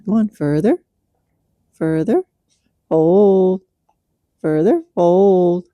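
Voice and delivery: drawn-out coaching cues to a horse; slowly cue the stretch, further, hold. Shown as a demonstration. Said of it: "when I say further".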